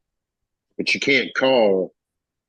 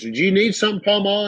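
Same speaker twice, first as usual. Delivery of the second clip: polite offer; 10 semitones higher than usual. Retold or imitated. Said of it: "he goes".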